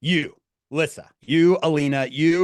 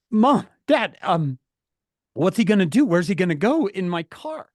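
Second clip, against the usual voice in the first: upset pleading; 4 semitones higher, 4 dB louder than usual. Acted. Teen upset with parents.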